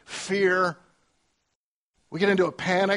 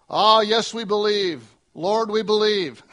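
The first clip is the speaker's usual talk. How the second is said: mock eager claim; 4 semitones higher, 8 dB louder than usual. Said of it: "If you were to ask Mary and Martha".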